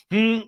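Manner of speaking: short, high mock hmm; disbelieving hmm. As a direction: imitate a loud, sceptical hum. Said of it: "She makes a disbelieving face".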